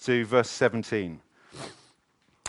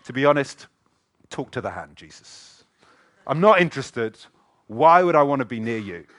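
sulky brush-off; 6 dB louder than usual. Retold or imitated. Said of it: "And Mary's like".

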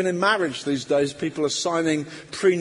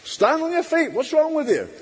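mocking harsh voice, high and loud; horrible nagging voice; 10 semitones higher, 3 dB louder than usual. Preacher mimics the accusing inner voice, high harsh taunt. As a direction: bark it at them like an inner bully. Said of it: "like a horrible voice that comes to you".

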